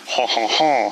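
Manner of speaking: mock French "ho ho ho"; put-on French chuckle, spaced out; stereotypical French laugh. Can't imitate French people without this, mock French laugh. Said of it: "doing the stereotypical ha ha ha French".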